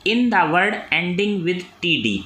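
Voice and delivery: reads the exam question very slowly, word by word; slow dictation reading. Acted. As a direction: dictate it so students can write. (प्रश्न धीरे-धीरे बोलकर लिखवाना)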